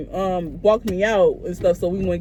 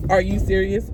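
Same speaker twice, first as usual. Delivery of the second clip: imitating a dead-faced question; dry, understated deadpan; 2 semitones lower than usual. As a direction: ask it with no reaction at all. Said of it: "with a dead face, he said that".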